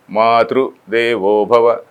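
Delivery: "Matru" leaned on, slow and weighty; stress on Matru. Shown as a demonstration. Teacher showing students the stress on "Matru". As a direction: hit the first word, "Matru", then ease off through "Devo Bhava". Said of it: "that emphasis is there on Matru".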